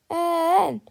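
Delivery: loud high shouted letter; crowd shout. Acted. Fans echo the cheerleaders, loud shout. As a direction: yell it back like the whole crowd. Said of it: "repeated the fans".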